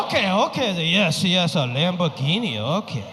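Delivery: falling, fading okays; fake understanding. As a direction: nod along without getting it. Dad pretending to understand.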